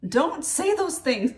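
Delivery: nervous laugh. Real, not acted. Repeated warning, laughing.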